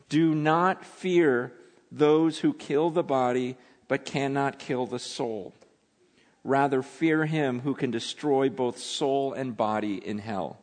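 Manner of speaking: slow, weighty, spaced words; slow solemn reading. Acted. Preacher reading Jesus's warning to congregation, slow and solemn. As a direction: lay each word down gravely. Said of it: "Listen to what he says".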